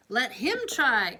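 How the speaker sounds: slow, firm command; mildly commanding princess. Acted. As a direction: order it slowly. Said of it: "commanded the princess".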